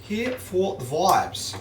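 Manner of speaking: mock Scouse catchphrase, unsure of the accent; attempted Scouse accent. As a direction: have a playful go at a Liverpool accent. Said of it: "I don't know what accent that is".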